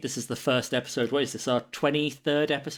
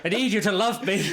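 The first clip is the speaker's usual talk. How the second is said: high, hammed-up plea; needy orc; 7 semitones higher, 3 dB louder than usual. Co-host voicing a love-starved orc, pleading high. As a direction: beg in a mock-pathetic high voice.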